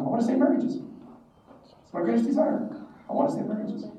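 high-pitched, dreamy self-imitation; mock-earnest idealism. Student declares his life's calling, mock-earnest. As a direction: go high and airy, gently mocking your younger self. Retold youthful ideal, acted out.

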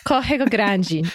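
Corrego said "kohego" with the R's as an H sound and Grande said "grandji", slowly; Brazilian Corrego Grande. Shown as a demonstration. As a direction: Corrego Grande in Brazilian Portuguese, slow and careful. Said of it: "Which has a double R".

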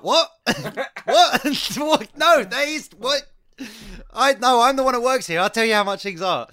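high, loud indignant protest; splutter, then insist heatedly, acting it out; retold furious disbelief. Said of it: "it's just furious".

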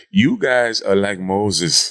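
slow Nigerian accent impression. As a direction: imitate a Nigerian mentor, slowly. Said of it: "That's your Nigerian accent".

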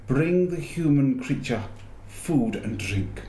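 high, imperious queen's order, slow at the end; commanding witch. Acted. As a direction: order the servant like a cold queen.

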